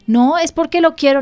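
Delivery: put-on child insisting during a tantrum; mock stubborn child. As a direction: whine it like a child refusing. Acted child tantrum reply.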